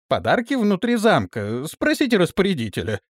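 high, loud flustered pleading; frightened excuse. Acted. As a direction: talk fast to save yourself. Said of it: "оправдывался Бартоломей".

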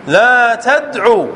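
stretched-out, deliberate model phrase; slow demonstration. Shown as a demonstration. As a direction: read the prohibition slowly for students. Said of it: "لا الناهية تنهى". (نطق بطيء متأنٍّ)

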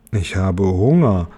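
tief und langsam verkündet; langsam, lauernd wie eine Spinne; Spinnenstimme. Acted. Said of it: "verkündete die Spinne". (tiefe, langsame Spinnenstimme)

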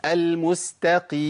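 final mim of المستقيم stretched with exaggerated nasal hum; slow wrong tajweed demo; overdone ghunnah. Shown as a demonstration. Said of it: "أنا عملت رخاوة".

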